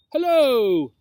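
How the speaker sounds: big drawn-out falling hello, loud and suave; velvety snake greeting, swooping down; deep, smooth, velvety. A narrator's reading. Snake greets little Obi, smooth velvety voice. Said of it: "said in a deep, smooth, velvety voice".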